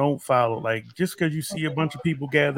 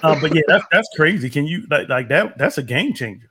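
excited; 4 semitones higher, 9 dB louder than usual. Real, not acted. Excited reaction, loud.

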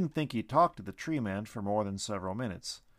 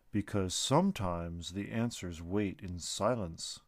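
wise tree creature; 3 semitones lower, slower than usual. Acted. Tree being speaks.

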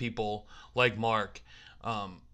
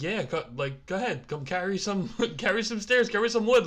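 mock brush-off; 7 semitones higher than usual. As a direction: wave them off in a high voice. Imitating a dismissive helper.

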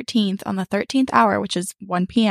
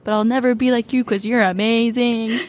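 gushing praise; 3 semitones higher than usual. Retold or imitated. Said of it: "I was like".

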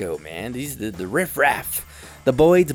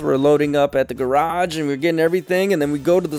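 breathless-style run, rising higher as it goes; flustered excuse; 5 semitones higher, 3 dB louder than usual. Retold or imitated. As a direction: imitate someone panicking through an excuse, building. Trainee's flustered excuse, voiced.

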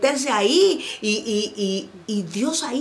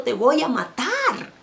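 raised, drawn-out threat; shouted threat; 3 semitones higher than usual. Acted. Messenger from hell screaming at Elijah, shouted threat. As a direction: cry the threat out slowly. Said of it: "que te está gritando".

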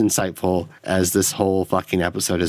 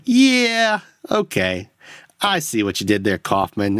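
mock approval. Mimics reaction to heavy-handed metaphor.

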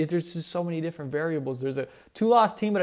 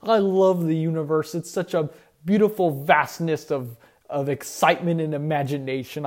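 lightly put-on dreamy broadcaster voice; Bill Walton impression; 4 dB louder than usual. Host hamming up a famous broadcaster's musings, mild mock awe. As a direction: gush about the universe like a rapt old announcer. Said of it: "I'm doing my best Bill Walton impression".

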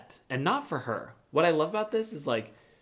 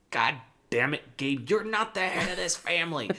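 mock outburst, rising in pitch on the rebuke; pissed off; 3 semitones higher than usual. Dad puts son in his place, pissed off. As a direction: imitate an irate dad with mild force. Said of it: "If that doesn't just get Cody pissed".

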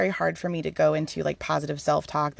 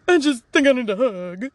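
high, louder whimpering plea; mock pitiful; 5 semitones higher, 5 dB louder than usual. Vulnerable speaker asking for a hug, mock pitiful. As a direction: beg like a hurt little kid.

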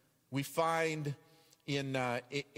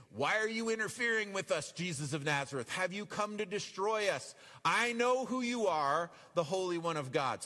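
demon voice; 4 semitones higher than usual. Acted. Demons cry out at Jesus.

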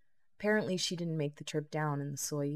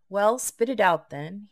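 impatient; 4 semitones higher, 10 dB louder than usual. A narrator's reading. Impatient demand to Jade.

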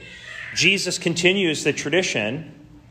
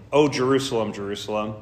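softer, grave and measured; solemn lament; 3 semitones lower, 3 dB quieter than usual. Retold or imitated. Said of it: "he says very solemnly".

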